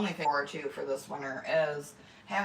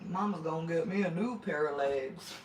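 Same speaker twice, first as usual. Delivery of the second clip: lightly voiced Forrest Gump, barely changed; bad Forrest Gump impression; 3 semitones lower, 3 dB quieter than usual. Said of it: "That was a horrible impression".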